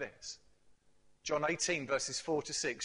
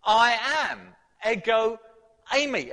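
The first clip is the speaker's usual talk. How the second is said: proclaimed; 6 semitones higher, 10 dB louder than usual. Acted. Preacher climaxes Jesus' claim.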